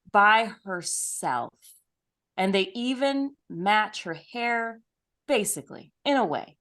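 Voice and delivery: slow, deliberate announcer-style build-up; playful ceremonial introduction, slowly paced; grand guest introduction. Acted. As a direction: present the guest grandly, drawing out the words.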